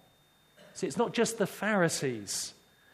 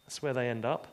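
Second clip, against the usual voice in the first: lower, sheepish chuckling reply; chuckling disciples; 3 semitones lower than usual. Retold or imitated. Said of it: "they all begin to chuckle and say".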